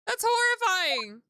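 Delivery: high, loud, slow horrified outcry; horrified shock. Real, not acted. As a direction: shriek it out in horror. Horrified at a guillotine clock.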